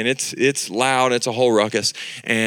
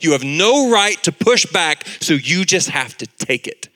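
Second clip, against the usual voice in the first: accusing devil voice; 3 semitones higher than usual. Retold or imitated. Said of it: "It will say".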